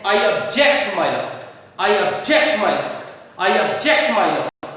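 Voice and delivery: slow, drawn-out courtroom objection, repeated; lawyer objecting. Retold or imitated. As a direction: plead it three times like a lawyer to the judge. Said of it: "वकील बोलते रहते हैं".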